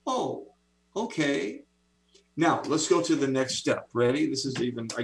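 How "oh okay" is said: "Oh, okay" voiced much higher as a surprised, willing brain; brain agreeing. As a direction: play the brain happily giving in. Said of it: "what the brain says to that".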